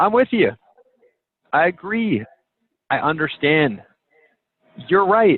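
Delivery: smiling voice, high and unhurried. Showing a group how a phrase should sound: said with a smile. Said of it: "I want you guys to say it with a smile. Okay? And it's going to sound something like this".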